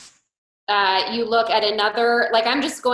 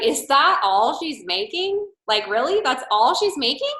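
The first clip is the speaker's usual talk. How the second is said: mock disbelief; 5 semitones higher than usual. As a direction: act unimpressed on purpose. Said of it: "I was like".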